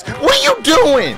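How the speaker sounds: high, loud and slow disbelief; incredulous yell. Real, not acted. Gamer watching his teammate fail, yelling in disbelief. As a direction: drag it out in shocked outrage. Opponent's baffling move in game.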